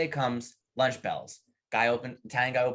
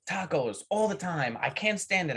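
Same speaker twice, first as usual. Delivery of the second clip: exasperated Spanish worker; 5 semitones higher than usual. Acted. Spanish worker complains in joke.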